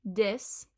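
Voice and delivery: "dis" with a D for this; Cockney D for TH. Shown as a demonstration. Teacher breaking down the phrase, "dis" with a D. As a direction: start "dis" on a D. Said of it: "the D at the beginning".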